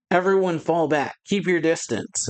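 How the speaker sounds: mock yell. Marine warns everyone to fall back, mock yell. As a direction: call out a retreat, lightly acted. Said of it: "One of the Marines yells".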